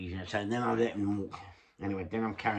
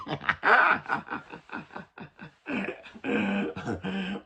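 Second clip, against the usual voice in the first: a long, high laugh; a giggling run of laughter; 8 semitones higher than usual. Real, not acted. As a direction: laugh at your own dark joke. Laughing at the imagined headlines.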